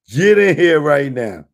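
calling out loud. Real, not acted. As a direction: yell it across the room. Calling the viewer into the stream.

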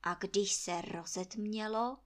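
plain reading voice

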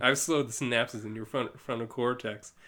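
villain lightly drifting into southern; slightly southern Starro. Acted. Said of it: "turning more southern at this point".

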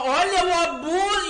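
high imitation of a piercing cry; strident voice. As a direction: imitate someone shrilling into an ear. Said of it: "aquela voz estridente no ouvido".

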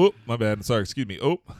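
playful Michigan bumping-into-you sorry; mock Midwestern apology. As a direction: guest joining the Michigan joke, hammed-up Midwestern apologies. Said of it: "I've been oped quite a few times".

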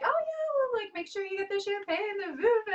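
high, breezy mock voice of her partner; imitating partner. Retelling partner's casual champagne advice, high mock voice. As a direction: toss it off like it's nothing. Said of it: "You were like".

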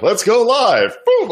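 high, loud burst of excitement; eager shout. Retold or imitated. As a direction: blurt it out eagerly. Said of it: "I'm like".

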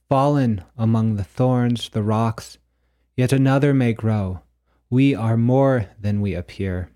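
measured, declaimed poem with deliberate pauses; prose poem reading. Acted. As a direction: read it like a solemn prophecy, phrase by phrase. Reads own prose poem aloud.

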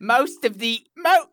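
put-on pompous British accent, starting to crack; high, faltering British pomposity; pompous British reviewer. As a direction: attempt a grand British reading, then falter. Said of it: "is this a pompous British person writing this review?".

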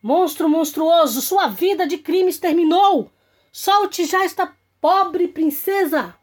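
shouting. Acted. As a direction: shout it like a brave knight.

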